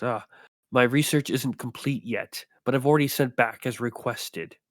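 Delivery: flat, dry, deadpan character voice. The narrator voices a figure dissecting a Yeti, not turning toward you: deadpan character voice. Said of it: "but more deadpan".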